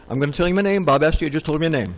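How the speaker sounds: mock robotic name intro, brisk at the end; speaking in XML. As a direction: introduce yourself like a computer tag, deadpan. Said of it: "stick up my hand and say".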